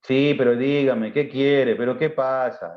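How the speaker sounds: slow, mildly irritated, annoyed tone; bad-tempered reply. Shown as a demonstration. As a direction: answer mom grudgingly, fed up. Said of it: "cuando estamos de mal día o mal genio".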